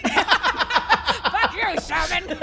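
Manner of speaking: high, laughing curse; cracking up while protesting; laughing mock outrage. Real, not acted. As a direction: swear at a teasing friend through real laughter. Player laughs while mock-cursing the teasing.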